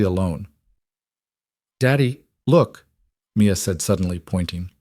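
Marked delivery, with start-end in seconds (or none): 1.8-2.9 put-on slow, higher child's call; a small girl eagerly tugging at her dad; excited little girl. Child excitedly points out mother.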